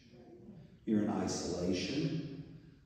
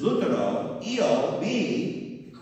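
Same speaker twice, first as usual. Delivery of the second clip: surprised; 8 semitones higher, 6 dB louder, much slower than usual. Retold or imitated. Friar shocked at being called Luther.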